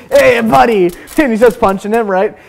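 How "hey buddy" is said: called out, a bit higher and louder; cheery call. Acted. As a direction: hail a pal brightly mid-punch. Acted greeting while punching.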